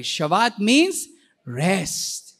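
very slow and calm, easing into rest; restful. Shown as a demonstration. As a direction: Shabbat means rest drawn out slowly and calmly. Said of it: "Say it that way".

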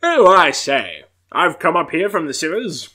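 a light posh British accent, lightly voiced; mild upper-class British accent. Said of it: "very British".

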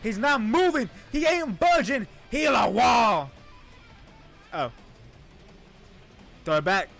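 ordinary delivery

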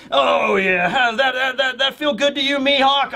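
needling his partner over the squirming clown; smug Crocodile. Retold or imitated. Crocodile voiced by retelling.

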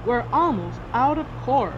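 a touch of alarm in a captain's voice; captain's warning cry. A narrator's reading. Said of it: "cried the captain".

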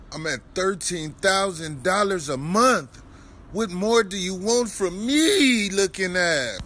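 loud defiant boast. Real, not acted.

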